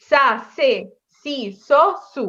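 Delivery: "সা, সে, সি, স, সু" with a clean hissed s; s sound, never sh, syllable by syllable; S pronunciation. Shown as a demonstration. Teacher asking learners to follow the S, pronunciation demo. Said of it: "আমি কিন্তু স পড়ে পড়ছি".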